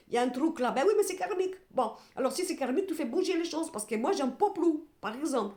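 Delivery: fed up, pushing the words out; getting worked up. Real, not acted. Tarot reader fed up with karmic cards, worked up. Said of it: "je m'énerve".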